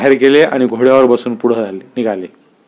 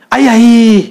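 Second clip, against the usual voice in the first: high, loud yelp of pain; oil-presser yelping under the whip; crying out in pain; 8 semitones higher, 5 dB louder, much slower than usual. A narrator's reading. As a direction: cry out as the whip lands on the back. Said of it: "म्हणून शिवलिंगा ओरडला".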